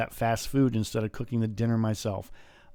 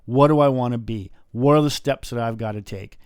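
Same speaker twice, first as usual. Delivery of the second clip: self-questioning; 5 dB louder than usual. Retold or imitated. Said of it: "look at yourself in the mirror, and go".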